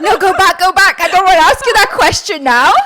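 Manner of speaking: loud laughing plea, up high; laughing protest. Real, not acted. Friend cornered by her co-host's question, a loud laughing protest. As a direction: beg to take the question back, laughing.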